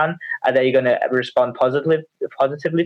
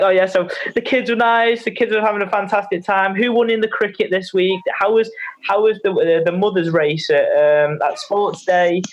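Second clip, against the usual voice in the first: lightly acted, higher-pitched friendly chit-chat; mock sociable catching-up, pitched up; chatty small talk; 5 semitones higher than usual. Coach playing himself emailing clients about their kids, chatty small talk.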